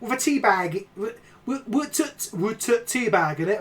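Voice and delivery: playful British regional dialect; put-on regional British accent. Streamer touring the regions for Rob, mock regional British accent. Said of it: "going through all the regions now".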